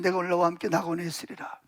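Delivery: low, hushed assurance; quiet promise. Acted. Jesus answering the penitent robber, quietly assuring.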